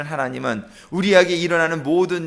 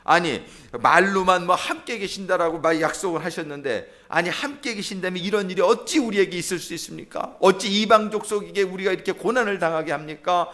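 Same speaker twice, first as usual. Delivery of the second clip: mildly indignant questioning; acted challenge. Preacher voicing Gideon arguing with God over hardship, mildly challenging. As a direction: press each question as a complaint. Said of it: "따지는 거예요".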